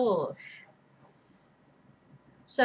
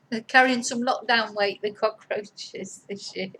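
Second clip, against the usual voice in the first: laughing; 3 dB louder than usual. Real, not acted.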